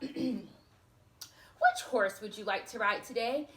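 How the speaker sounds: slow, lightly voiced stable groom; a touch of a polite servant asking; a hint of a groom, unhurried; groom's voice. Stable groom asks Aurora.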